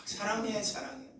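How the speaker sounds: high-pitched gush of love; exuberant affection. Acted. Preacher imitating lively Jeolla people declaring love, high exuberant gush. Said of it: "저희가 흥이 좋으니까".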